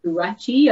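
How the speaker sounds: gouache said as "goo-ATCHY"; questioning, rising stab at gouache as "goo-atchy"; tentative pronunciation. Shown as a demonstration. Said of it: "don't actually know how to pronounce".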